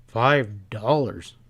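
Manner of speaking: slow, incredulous "Five dollars?"; sharp echo. Acted. Pat echoing the stableman's price, sharp and disbelieving. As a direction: throw the price back in disbelief. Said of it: "Pat echoed sharply".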